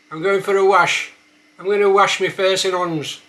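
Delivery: Black Country accent, loud. Shown as a demonstration. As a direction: hands said as 'ons, H dropped. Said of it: "a few words".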